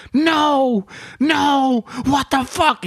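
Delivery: put-on high, frantic yelling of the kid; imitated high-pitched freak-out; Miku freaking out. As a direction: act out the panicked reader. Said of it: "he starts fucking screaming".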